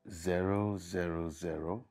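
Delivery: slow, drawn-out digits; slow dictation. Acted. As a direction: spell it out slowly for someone typing. Say it again.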